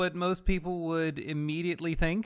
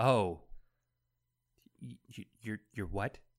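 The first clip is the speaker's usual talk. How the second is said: low, quiet, flustered stammer sounding shocked.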